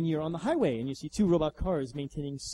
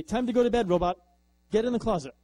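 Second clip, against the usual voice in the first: loud, higher bossy command; stern order; 4 semitones higher, 6 dB louder than usual. Retold or imitated. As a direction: order the robot to bed. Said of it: "come in and say".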